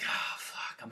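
hushed whispered groan; whispered dread at the ringing phone. Retold or imitated. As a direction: mutter it under your breath. Retold inner groan, whispered.

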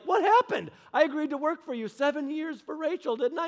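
high, outraged demand; a touch of shouted protest; indignant. Acted. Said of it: "is like".

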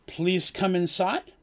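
slow, strained polite invite; a hint of strained courtesy; forced politeness. Guard inviting the party inside, strained but polite. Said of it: "struggling to be polite".

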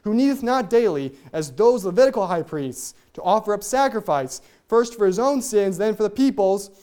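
resonant, deliberate Bible reading; solemn scripture reading. Acted. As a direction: proclaim the verses like a preacher at the pulpit. Reads scripture aloud with force.

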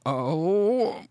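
drawn-out, softly imitated groan. Trying out the sound heard under the boards, imitated groan. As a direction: attempt the comic's groaning sound effect. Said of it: "you hear this".

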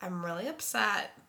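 sick, congested voice; stuffy nose. Real, not acted. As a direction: talk through a stuffy nose. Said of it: "if I sound different, it's because I'm sick".

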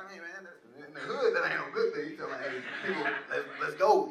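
laughing mock street voice; imitating the guy. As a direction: poke fun at him, chuckling through it. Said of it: "he go like this".

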